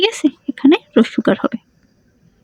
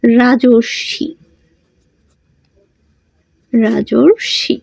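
রাজর্ষি said very slowly, every syllable drawn out; slow dictation; much slower than usual. Shown as a demonstration. Teacher slowly dictates রাজর্ষি as an exercise, drawn out. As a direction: dictate রাজর্ষি slowly so students can write it. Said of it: "একটা করে দেখাও".

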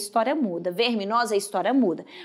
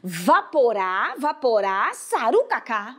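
slow syllable by syllable; slower than usual. Shown as a demonstration. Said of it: "repetir comigo olhando pra cada sílaba".

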